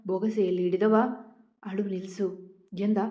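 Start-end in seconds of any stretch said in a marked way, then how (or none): none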